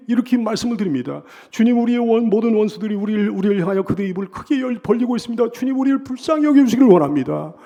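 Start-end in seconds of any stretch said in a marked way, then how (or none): 1.5-7.5 acted plea to God, higher and louder; urgent, pitched-up prayer of the oppressed; anguished plea. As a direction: beg the Lord for pity. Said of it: "얼마나 괴롭고 고통스러운지 말이죠".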